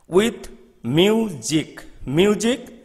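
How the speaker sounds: "music" with MU punched and the second syllable light; stress on first syllable. Shown as a demonstration. Teacher shows students where "music" takes its accent, first syllable stressed. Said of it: "the first syllable is accented".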